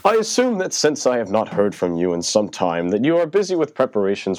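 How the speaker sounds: high, theatrical gentleman-uncle voice; a hammed-up high uncle voice; Fenchurch voice. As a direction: put on a lofty, high old uncle. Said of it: "in my best Fenchurch accent that I can do".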